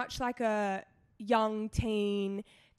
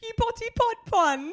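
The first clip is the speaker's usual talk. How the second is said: laughing; 11 semitones higher, 5 dB louder than usual. Real, not acted. Repeating funny name.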